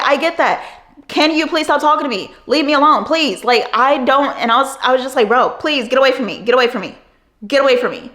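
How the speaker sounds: a fed-up worker begging a man to back off; exasperated plea. Retold or imitated. Her pleading retold.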